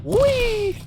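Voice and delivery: loud high jeering taunts; dunk tank heckler. Pretend. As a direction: jeer at it from safety, hollering. Taunting a monster in game.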